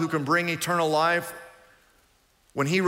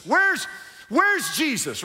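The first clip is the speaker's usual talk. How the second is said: mock-puzzled question; rhetorical question; 8 semitones higher, slower than usual. Real, not acted. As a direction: pose it to the crowd with mock puzzlement. Preacher asks crowd rhetorically.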